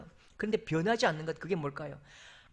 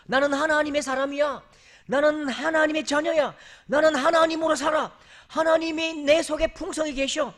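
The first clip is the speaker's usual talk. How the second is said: loud, high declaration of faith; proclaiming; 8 semitones higher, 9 dB louder than usual. Acted. Preacher proclaiming to the congregation, loud and high. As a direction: proclaim it with full conviction.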